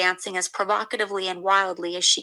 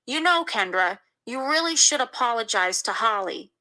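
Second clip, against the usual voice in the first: fatherly, condescending; 3 semitones higher than usual. A narrator's reading. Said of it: "in a sort of fatherly, condescending tone".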